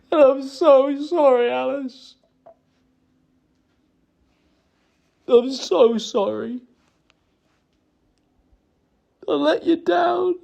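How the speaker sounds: real crying, high strained voice; high-pitched, grief-stricken remorse; tearful apology. Real, not acted. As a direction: plead through tears, with long broken pauses.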